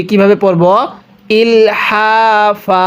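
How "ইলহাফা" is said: ইলহাফা ending on a long আ, the ন dropped; ওয়াকফে শেষ টেনে; pausal stop. Shown as a demonstration. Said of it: "আমি এখানে ওয়াকফ করছি".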